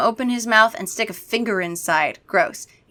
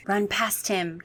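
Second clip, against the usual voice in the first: whispered; 6 dB quieter, slower than usual. Acted. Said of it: "Kara whispered in my ear".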